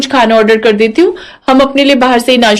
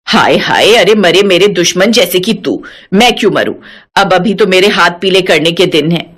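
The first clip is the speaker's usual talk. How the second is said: put-on lower, scolding old mother-in-law; 5 semitones lower than usual. Mother-in-law scolding her daughter-in-law, lower feisty voice. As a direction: play the feisty old saas brushing her off.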